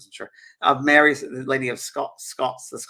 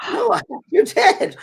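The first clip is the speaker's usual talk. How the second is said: very high, loud child impression; little girl; 8 dB louder, slower than usual. Little girl corrects the Scottish lady, high insistent child voice. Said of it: "And a little girl".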